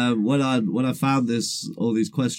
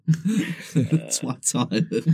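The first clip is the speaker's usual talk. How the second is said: laughing; 3 semitones higher, much slower than usual. Real, not acted. Laughing at funny name.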